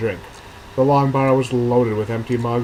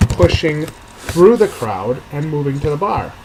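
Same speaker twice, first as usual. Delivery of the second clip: slow read; 3 semitones higher, 5 dB louder, slower than usual. Shown as a demonstration. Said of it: "we're gonna say it like this".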